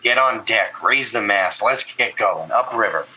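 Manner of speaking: halfling shouting down the stairs to rouse the crew. Acted. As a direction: call the crew up on deck. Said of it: "and he shouts".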